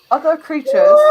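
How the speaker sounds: loud, firm gate guard; stern guard. Acted. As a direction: bar the way like a soldier. Guard finishes warning.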